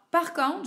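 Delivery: "par contre" lifted high; stress on the substitute. Shown as a demonstration. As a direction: point out "par contre" with a high rising lift.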